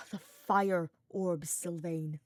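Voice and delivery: slow, loud, warning growl; low growl. Acted. Hubert warning Sylvain to focus, low growl. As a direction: bite each word out in anger. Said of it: "Hubert growled lowly".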